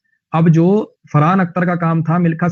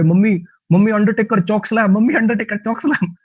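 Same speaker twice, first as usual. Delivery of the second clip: put-on higher kid's chant, softening toward the end; kids cheering wrestling; 5 semitones higher than usual. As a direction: urge mom on like a wrestling fan child. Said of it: "हम इधर से कर रहे".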